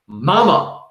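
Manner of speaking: calling out. Acted. Walter calls insistently.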